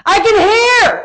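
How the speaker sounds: high, drawn-out cry of amazement; overjoyed cry. Retold or imitated. Healed girl crying out that she can hear, overjoyed. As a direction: imitate her tearful joy, long and high. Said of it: "she is just weeping".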